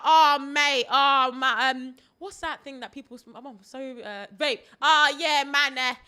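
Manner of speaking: loud laddish rant; imitating a brash lad; loud Essex lad. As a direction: moan and brag like a rowdy lad. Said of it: "he was like".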